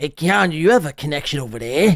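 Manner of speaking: super thick put-on New York accent. Describing what a man says at the end, quoting him in a super thick new york accent. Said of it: "It's like super thick New York accent".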